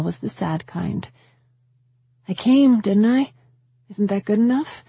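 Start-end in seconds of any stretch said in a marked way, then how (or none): 2.3-4.8 angry retort. Acted. Liz snaps back at Mama.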